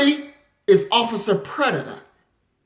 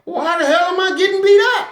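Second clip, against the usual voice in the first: confused; 7 semitones higher, much faster than usual. Retold or imitated. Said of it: "you don't even understand".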